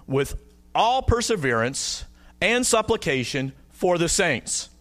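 slow, measured verse reading with pauses between phrases; scripture reading. Real, not acted. Preacher reading verse eighteen to the congregation, slow scripture reading. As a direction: read the verse out slowly, phrase by phrase. Reads the Bible verse aloud.

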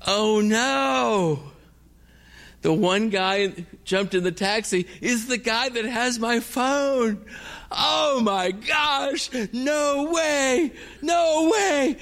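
high-pitched wailing disbelief; shocked dismay. Retold or imitated. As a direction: cry out in shocked despair. Sees the thief drive off.

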